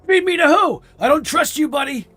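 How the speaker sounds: loud, high, suspicious wiseguy gull; New York Italian accent. Acted. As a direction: push back like a New York tough. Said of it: "seagulls are Italian now".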